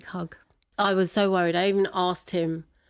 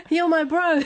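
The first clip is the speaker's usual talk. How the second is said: laughing bro quote; 11 semitones higher, 5 dB louder than usual. Retold or imitated. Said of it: "Hey, bro".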